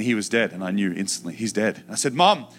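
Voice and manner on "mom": high, loud scream for mom. Retold or imitated. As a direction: scream for help. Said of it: "I started screaming".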